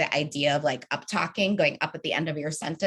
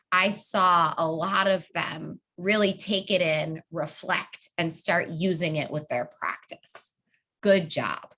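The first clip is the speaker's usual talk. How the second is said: sincere, specific praise. Shown as a demonstration. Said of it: "Now I might go really specific".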